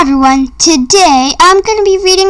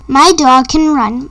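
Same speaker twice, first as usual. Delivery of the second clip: usual speaking voice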